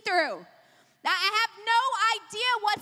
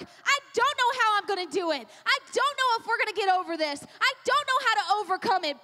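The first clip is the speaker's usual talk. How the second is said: urgent, insistent plea to God in rolling phrases; impassioned preached prayer; 4 semitones higher, 4 dB louder than usual. Acted. Believer at the door praying to God, impassioned. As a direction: build a fervent prayer line by line.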